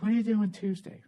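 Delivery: a mild mocking imitation of his wife; caricatured wife voice. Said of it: "She doesn't talk like that. That's just how it sounds in my head".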